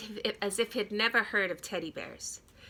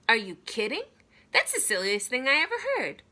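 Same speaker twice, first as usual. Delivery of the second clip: louder, quick protest; indignant boy; 4 dB louder, faster than usual. Acted. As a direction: scoff at the very idea. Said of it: "I said".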